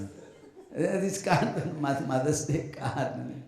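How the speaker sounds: slow, chuckling mock parent; lightly voiced giggling parent; laughing proud parent. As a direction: giggle while flaunting the card. Parent showing off card, laughing.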